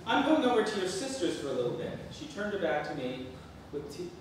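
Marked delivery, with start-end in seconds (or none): 0.0-2.0 high, loud huffy voice; high huffy mother. Acted. Mother leaves.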